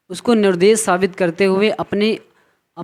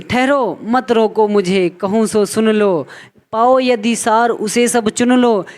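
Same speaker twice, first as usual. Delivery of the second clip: poem recitation; 2 semitones higher than usual. Acted. Teacher recites Kaikeyi's verse.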